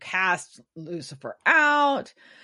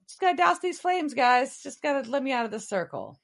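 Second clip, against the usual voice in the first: lightly voiced Lucifer, fast and taunting, pitched up; mocking Lucifer; 7 semitones higher, much faster than usual. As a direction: needle them with a quick sing-song taunt. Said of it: "he's like".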